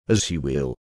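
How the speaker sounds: low, soft hiss through the teeth. A narrator's reading. Wife hissing at her brother as she leaves. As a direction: hiss it back, quiet and bitter. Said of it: "she hissed".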